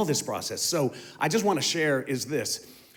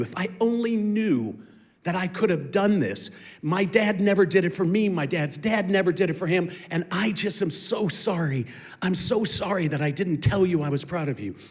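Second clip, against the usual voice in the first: higher, pressing plea of regret; an aching father's plea, pitched higher; pleading apology; 4 semitones higher, 3 dB louder than usual. Retold or imitated. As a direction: pour out the regret, voice rising. Retold fatherly plea for forgiveness.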